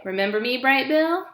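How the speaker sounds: put-on high, bright old goose asking; chatty old goose. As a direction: tease the gosling like a fond old goose. Loudwing asks gosling.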